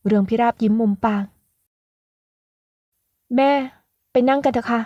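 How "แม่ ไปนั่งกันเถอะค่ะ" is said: slightly higher, sweet invitation; lightly voiced young woman. Daughter inviting her mother to sit, sweetly.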